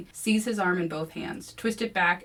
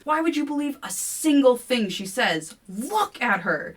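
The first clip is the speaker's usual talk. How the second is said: scornful attack; 7 semitones higher, 7 dB louder than usual. A narrator's reading. Kevin scorning the narrator to William, loud. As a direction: sneer it out.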